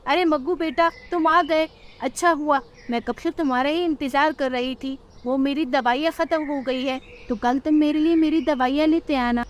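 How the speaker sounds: relieved mother asking for medicine; old mother asking son for medicine; old crow mother. Acted.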